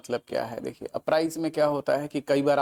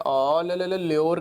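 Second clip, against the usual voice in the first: calling a street dog to a biscuit, chirpy; sing-song ले, ले, ले to lure a dog; coaxing a dog; 3 semitones higher, 3 dB louder, slower than usual. Retold or imitated. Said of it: "करके हम allure करते हैं".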